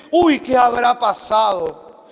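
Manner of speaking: jolted awake by a midnight call; worried parent. Retold or imitated. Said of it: "suena el teléfono a las doce de la noche". (padre alarmado por una llamada a medianoche)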